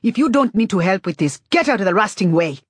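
loud commanding shout; yelling. Acted. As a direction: bark orders at the crowd. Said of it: "She yells".

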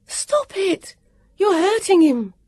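high, pleading cry to stop. A narrator's reading. Vivian crying out to the warrior to stop hurting Elio. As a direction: beg him to stop, voice up high. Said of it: "Vivian cried".

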